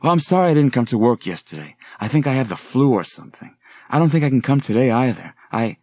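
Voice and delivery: put-on breathless, hurried girl's voice; flustered apology. Young woman rushing past her professor, flustered and apologetic. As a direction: stammer out excuses in a rush.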